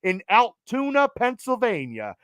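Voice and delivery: lightly imitated wrestling announcer; Mean Gene Okerlund. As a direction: plug the show with a hint of old ringside interviewer. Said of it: "my Mean Gene Okerlund voice".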